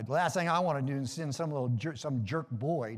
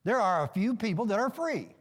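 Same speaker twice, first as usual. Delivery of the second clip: "few" punched out for emphasis; stress on FEW; 5 semitones higher than usual. Real, not acted. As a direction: hit "few" hard as the key word. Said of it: "I did emphasize the word few".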